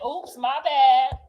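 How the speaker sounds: slow, loud, offhand oops my bad; drawn-out oops. Mother shrugging off a kid's insult, slow and loud. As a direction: toss off the apology slowly. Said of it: "If they say".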